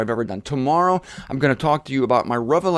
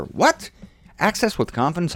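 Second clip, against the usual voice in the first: a sudden much higher, incredulous "What?"; mock surprise; 4 semitones higher than usual. Preacher feigning disbelief at Paul's message, high incredulous "What?". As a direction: pretend you can't believe what you just read.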